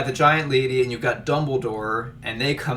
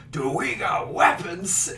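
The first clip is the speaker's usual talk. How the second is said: mock incredulous; 6 semitones higher, slower than usual. Dumbledore character's reply voiced.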